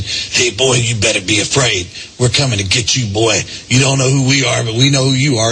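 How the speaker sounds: lightly disguise your voice to intimidate; disguised threatening voice. Retold or imitated. Klansman phoning the reverend to scare him, disguised voice. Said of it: "disguised my voice".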